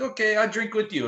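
high mock Russian host voice; Sergei imitation. Club owner offering to drink with his guest, mock eager.

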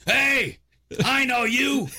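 high mock yell; high-pitched bum hailing a man; bum calling out. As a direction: call out like a bum who spots someone. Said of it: "And he goes".

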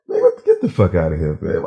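retold angry dismissal; mildly heated mock outrage; dead mad. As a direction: re-enact irritated disbelief. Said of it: "You was dead mad".

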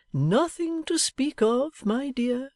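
doting Pa answering his daughter; fond father. Acted. Pa answers Bella.

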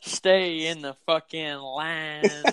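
slow crooning rock voice; impression of a rock singer. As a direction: sing it like the rock singer. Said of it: "Go ahead and do your Danzig".

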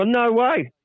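disbelief. Retold or imitated. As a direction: gasp it out. Shocked at teammate's pay.

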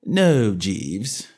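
even and steely, no give in it; calm firmness, closing the matter; level, steely master's reply. A narrator's reading. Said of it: "I said in a level tone".

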